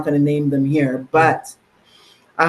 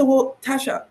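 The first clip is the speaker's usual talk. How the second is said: imitating mom; 8 semitones higher than usual. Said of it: "she said".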